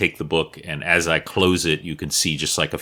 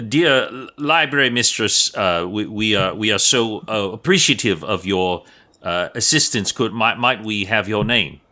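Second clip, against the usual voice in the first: halting, courteous speech in light Cockney; lightly voiced Cockney wood elf; Cockney accent; 2 semitones higher than usual. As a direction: stammer a polite request with a hint of Cockney. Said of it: "the equivalent of, like, a Cockney accent".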